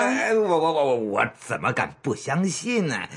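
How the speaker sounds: stammering, hasty backtrack; flustered stammer. Acted. Boss assuring the matron he believes her, flustered stammer. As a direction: trip over the first word while backing down.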